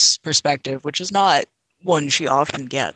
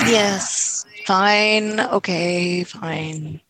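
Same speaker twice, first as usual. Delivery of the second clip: grudging agreement; 5 semitones higher, much slower than usual. Acted.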